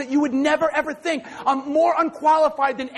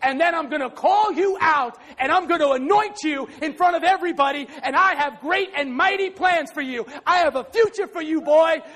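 mild rising proclamation; voice of God. Retold or imitated. God promising the boy a future, a rising proclamation. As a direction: build the promise up. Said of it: "He said".

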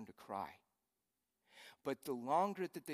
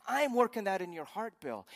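booming voice of God; 7 semitones higher, 10 dB louder than usual. Acted. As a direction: declare it as God, with full authority. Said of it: "says God".

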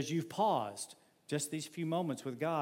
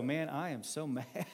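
laughing while mad; 4 dB quieter than usual. Retold or imitated. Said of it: "you just go".

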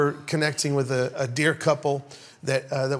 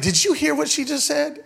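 retold indignant question; 9 semitones higher than usual. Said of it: "Glenda's like".

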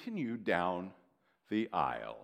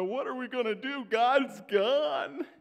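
fast, high panicky cry; panicked people; 13 semitones higher, 7 dB louder than usual. Retold or imitated. The people to Aaron, Moses gone, panicked and fast. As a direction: rush it out in alarm, pitched up. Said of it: "they go to Aaron and they go".

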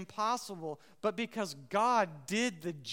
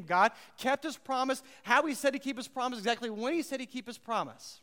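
fervent emphasis; 4 semitones higher, 4 dB louder than usual. Acted. Preacher building emphasis.

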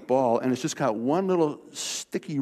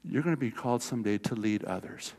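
soft, low solemn call; hushed, reverent divine voice; voice of God; 4 semitones lower, 6 dB quieter than usual. Retold or imitated. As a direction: speak it like a quiet calling from above. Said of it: "He said".

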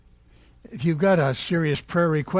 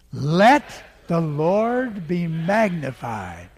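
louder; much slower than usual. Shown as a demonstration. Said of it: "then louder".

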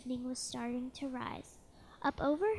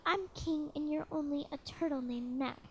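thundering royal voice. Acted. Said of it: "his royal voice thundered".

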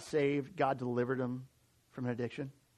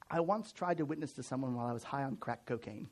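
laughing through quote; 3 semitones lower, 6 dB quieter than usual. Retold or imitated. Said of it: "He goes".

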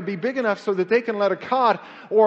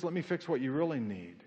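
much softer and lower, gentle answer; soft voice of the Lord; 8 semitones lower, 12 dB quieter than usual. Acted. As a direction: answer quietly, like a patient father. Voicing the Lord.

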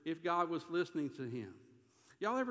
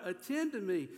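mild, raised cry to God; 4 semitones higher, 3 dB louder than usual. Acted. David calling on God to attend, crying out. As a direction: call out for attention, slightly pushed. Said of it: "he's crying out to God".

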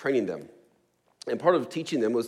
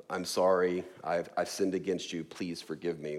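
put-on child's apology; 5 semitones lower, 4 dB quieter than usual. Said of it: "what it usually sounded like".

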